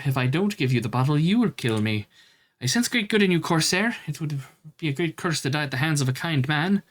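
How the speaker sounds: torn guardian, gently pleading; lightly voiced guardian. Reads the bottle guardian's lines.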